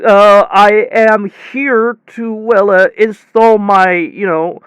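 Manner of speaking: slow, hesitant nervous mumble; mumbling. Retold or imitated. Mumbling nervously to the huge guy at the door. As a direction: trail off and mumble it, unsure. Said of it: "I literally just mumbled".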